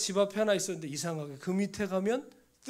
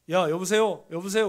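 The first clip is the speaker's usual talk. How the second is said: louder, urgent hello down a dead line; calling out on the phone; 7 dB louder than usual. Retold or imitated. Pastor calling to his silent student on a bad line, louder and urgent. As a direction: call into the phone, checking if anyone's there.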